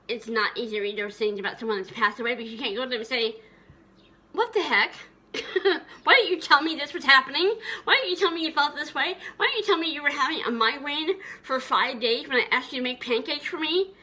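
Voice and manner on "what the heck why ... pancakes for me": higher and louder, half-laughing protest; exasperated plea. Pretend. Child asking late mother why she hid pain, exasperated and pleading. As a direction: demand answers you'll never get.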